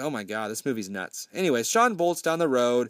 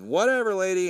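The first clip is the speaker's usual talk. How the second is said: dismissive mock brush-off; 6 semitones higher than usual. Teens brush off the lady.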